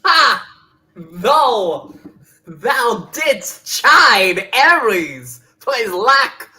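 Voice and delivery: loud, slow mock-archaic gloating; hammed-up villain. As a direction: gloat like a stage god. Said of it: "we're all doing overacting tonight".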